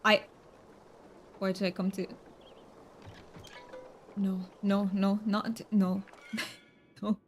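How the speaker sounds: overdone Romanian-accented English; almost fake-sounding Romanian accent, played for fun; Romanian accent attempt. Shown as a demonstration. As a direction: roll the R's too much in a mock Romanian accent. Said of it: "they don't roll their R's as much as I do".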